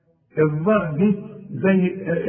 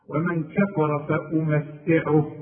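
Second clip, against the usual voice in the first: slow, measured reading of "ومن كفر فأمتعه"; recitation demo; 2 semitones lower, slower than usual. Shown as a demonstration. Teacher showing the student how we say it, slow recitation demo. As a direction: recite it slowly, each letter distinct. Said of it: "هنقول".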